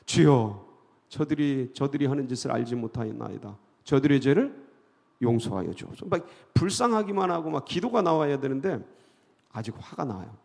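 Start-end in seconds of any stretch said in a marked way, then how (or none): 0.0-6.0 prayer of Jesus. Retold or imitated. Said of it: "예수님처럼".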